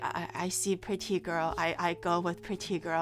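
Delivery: low, soft simpleton voice; dim chat viewer. Acted. Streamer imitating chat falling for pretty girls, dopily. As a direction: play chat as a dopey follower, low and quiet. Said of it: "Chat's just like".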